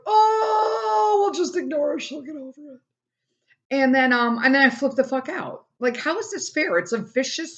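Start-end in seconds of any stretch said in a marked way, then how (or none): 0.1-2.8 mocking the family; mocking others. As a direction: brush her off in a snooty put-on voice. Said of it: "everyone's just like".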